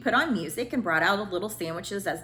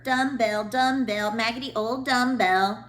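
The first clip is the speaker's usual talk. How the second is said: taunting bully; 3 semitones higher, 6 dB louder than usual. A narrator's reading. Bully Eric taunting Trisha.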